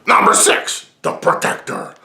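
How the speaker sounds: high, punched announcement; countdown announcer. Pretend. Host announcing the next film to viewers, high announcer call.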